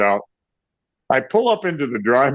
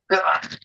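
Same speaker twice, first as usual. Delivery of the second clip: high retold yell without words; mock scream; 6 semitones higher than usual. Garage owner screaming at musician, mock scream. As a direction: imitate an owner screaming, not at full volume. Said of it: "he starts screaming at me".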